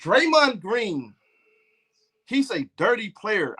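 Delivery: lightly put-on analyst voice; mock proper talk. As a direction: imitate a stats-quoting sports commentator, mockingly. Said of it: "That sound better to you?".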